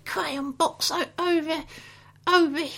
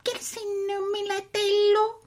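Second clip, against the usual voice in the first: fake Italian. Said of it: "Italian gibberish".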